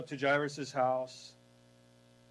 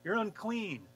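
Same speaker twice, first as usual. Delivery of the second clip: a hammed-up scold, louder and higher; an indignant rebuke, pitched up; mock scolding; 5 semitones higher, 5 dB louder than usual. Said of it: "He doesn't turn around and go".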